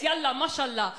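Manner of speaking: Arabic-accented demo; Arabic sound. Shown as a demonstration. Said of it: "Arabic sounds like this".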